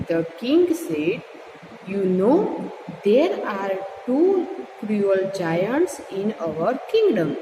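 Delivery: slow, deliberate story reading; story read-aloud. A narrator's reading. Teacher reads king and Gopal's talk to learners, slow read-aloud. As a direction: read slowly with clear breaks between phrases.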